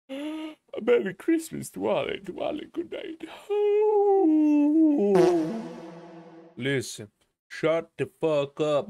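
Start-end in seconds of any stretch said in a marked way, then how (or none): 0.1-3.2 high put-on voice. 3.3-6.2 loud high sigh. Pretend.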